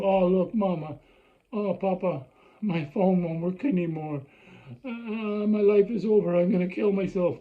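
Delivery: put-on dramatic, whiny kid begging; mock teenager. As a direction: ham up the spoiled teen's despair. Child voiced whining to parents.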